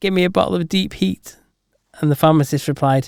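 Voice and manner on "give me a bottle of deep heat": put-on pained croaking voice. Telling a joke, voicing the injured man asking the pharmacist, mock-pained croak. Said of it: "in a pained voice, the man croaked".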